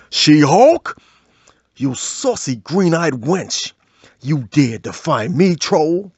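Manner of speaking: slow, grand mock-medieval decree; lightly voiced pompous thunder god; Shakespearean Thor. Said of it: "medieval Shakespearean dirty talk".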